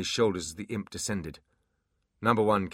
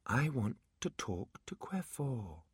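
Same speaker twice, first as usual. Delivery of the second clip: soft, slow, otherworldly command; layered magical power voice; voice of pure magic; 4 semitones higher, 8 dB quieter, slower than usual. Acted. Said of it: "the voice of pure magic".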